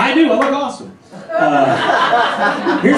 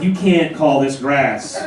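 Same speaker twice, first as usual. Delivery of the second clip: unimpressed stoner; 3 semitones lower, slower than usual. Retold or imitated. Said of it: "Some guy in eighty-two was like".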